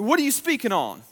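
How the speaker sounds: lightly voiced woman asking, eager; a hint of an eager woman; curious woman. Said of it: "she was like".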